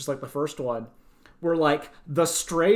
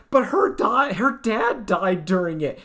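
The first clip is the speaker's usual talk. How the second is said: exasperated objection; 5 semitones higher, 4 dB louder than usual. Retold or imitated. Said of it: "But it's like".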